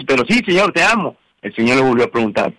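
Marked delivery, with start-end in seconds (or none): 0.1-1.2 higher-pitched, mildly emphatic quoted reply; lightly acting a first, ready declaration of love. Peter first answers the Lord that he loves him, mildly emphatic. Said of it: "Y ya Pedro bajó la voz".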